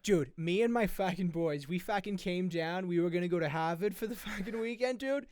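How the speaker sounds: loud, high Boston bro storytelling; Massachusetts accent. Acted. Masshole telling of his boat trip, loud Boston accent. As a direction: brag about the weekend in broad Boston. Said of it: "I just mastered the guy's accent".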